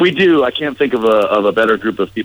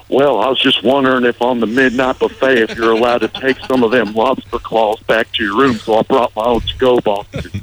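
mother-in-law impression; 4 semitones higher than usual. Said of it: "Let me hear it".

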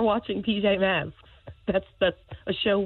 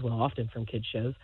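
ordinary talk, nothing marked

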